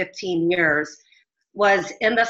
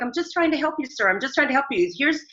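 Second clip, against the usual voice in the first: pleading; 5 semitones higher than usual. Retold or imitated.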